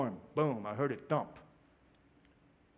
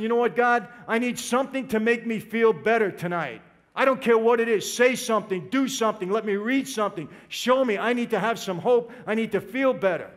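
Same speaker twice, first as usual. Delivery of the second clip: raised, urgent pleading to God; desperate plea; 2 semitones higher, 3 dB louder than usual. Retold or imitated. In the prison cell, crying out to God for hope, desperate raised plea. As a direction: beg God out loud for any sign.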